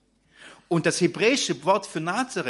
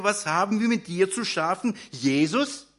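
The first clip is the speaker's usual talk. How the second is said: possessed man crying out; 3 semitones higher, 4 dB louder than usual. Acted. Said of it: "Und er schrie auf und sagte".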